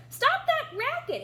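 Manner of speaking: high, loud cut-in; interrupting. A narrator's reading. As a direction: cut them off sharply. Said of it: "interrupted the duck".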